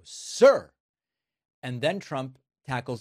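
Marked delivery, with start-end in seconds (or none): 0.0-0.7 grovelling sir. Retold or imitated. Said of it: "they will crawl back and they will go".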